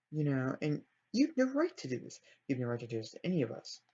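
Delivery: mildly heated scolding; half-hearted angry rebuke; acted anger. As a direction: act out an accusing telling-off, lightly. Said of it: "I am gonna make her angry".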